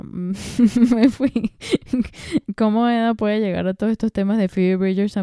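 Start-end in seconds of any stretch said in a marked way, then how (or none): 0.0-1.5 entre risas, un poco más fuerte; ríete de ti misma al decirlo; riendo. Real, not acted. Se ríe de su propia divagación. 1.6-2.5 carcajada breve y aguda; risa aguda. Real, not acted. Risa tras divagar.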